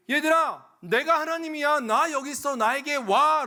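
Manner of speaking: loud, high open-armed call; God calling out. Acted. God calling his children to come to him, loud and high. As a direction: call the children home, arms wide.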